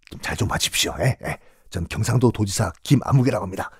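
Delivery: hushed, whispered request; bribing whisper. Acted. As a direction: slip the words in secretly. Governor slipping a bribe.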